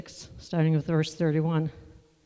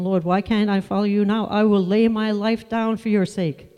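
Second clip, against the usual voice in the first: fervent vow; 4 semitones higher, 6 dB louder than usual. Retold or imitated. Peter's impassioned vow to Jesus.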